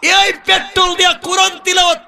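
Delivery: high, chanted sermon shout; ringing pulpit declamation; full-force preaching. Real, not acted. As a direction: proclaim the miracle on a high sustained pitch.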